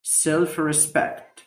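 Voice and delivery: self respect very slowly; slow model word. Shown as a demonstration. Teacher modelling self respect slowly. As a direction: drag out self respect clearly. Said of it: "احترام الذات self respect".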